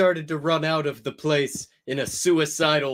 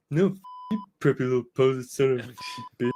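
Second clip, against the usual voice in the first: disgusted; much faster than usual. Acted. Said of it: "under his breast in a disgusted way".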